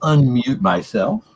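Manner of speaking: echoing like a big hall; reverb echo. Real, not acted. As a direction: voice bouncing in a big room. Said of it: "sorry for the reverb".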